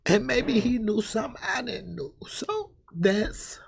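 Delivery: high, tearful pleading; real tearful upset. Real, not acted. Grieving mother to Miss Baxter about her son, tearful. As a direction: hold back real tears while explaining. Tearful recall of son's death.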